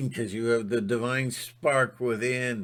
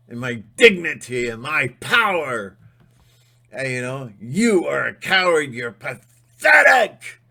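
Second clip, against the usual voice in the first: building from firm to a furious shout; defiant speech; 7 dB louder than usual. Pretend. Facing a bully, defiant then shouting. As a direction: stand up to the bully, rising to a yell.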